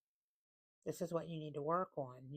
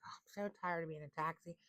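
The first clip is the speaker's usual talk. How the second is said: flippant venting. Retold or imitated. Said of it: "you are like / in some little flippant manner".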